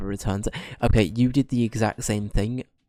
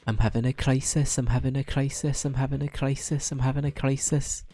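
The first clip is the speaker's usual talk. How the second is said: slightly raised, repetitive fretting chant; mock panic; 4 semitones higher than usual. Player dreading the Welsh voice, mock-panicked chant. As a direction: fret on a loop, half in jest.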